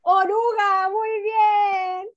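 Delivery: light up for the pupil; delighted teacher praise; excited praise. Real, not acted.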